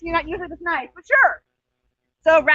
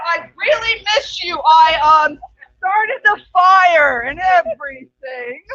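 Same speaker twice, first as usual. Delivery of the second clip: mock sobbing; 4 dB louder, slower than usual. The speaker fakes the house's voice.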